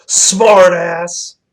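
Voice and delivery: loud, high yelled insult, imitating her; retold yell. She yells at the attendant through the speaker, imitated angry yell. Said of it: "she just yells into the speaker".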